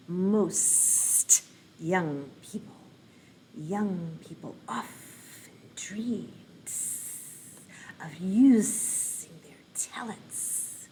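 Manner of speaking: slow, hissing snake reading with whispered ends. Shown as a demonstration. Teacher reading her book as a snake, slow and hissy. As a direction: stretch the words like a slithering snake.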